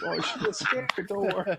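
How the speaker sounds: hint of an Aussie croc handler; attempted Australian accent. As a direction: soothe the animal in a high Aussie voice. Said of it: "It's like".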